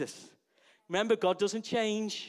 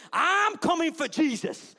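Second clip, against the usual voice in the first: eager cry; 9 semitones higher, 6 dB louder, slower than usual. Acted. Acting Peter jumping into water.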